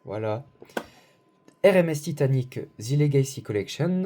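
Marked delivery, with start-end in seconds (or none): 1.7-4.0 self-mocking English accent on the box title. Shown as a demonstration. Vlogger reading the box label aloud in a mock English accent. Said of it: "avec mon superbe accent anglais".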